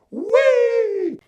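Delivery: calling out. A narrator's reading. Kids jumping, calling out.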